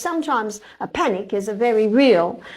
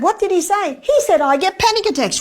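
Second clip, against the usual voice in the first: more Rio; 7 semitones higher, 4 dB louder than usual. Retold or imitated. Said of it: "Ooh, bit more Rio there".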